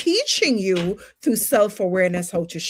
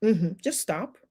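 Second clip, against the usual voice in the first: quiet stop; 2 semitones lower, 6 dB quieter than usual. Shown as a demonstration. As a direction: tell the room to stop, softly. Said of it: "Whenever that time comes, stop".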